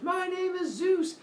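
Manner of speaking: high, slow, booming shout; grand shouted entrance. Acted. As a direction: announce yourself to the monsters at full voice. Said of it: "steps inside and goes".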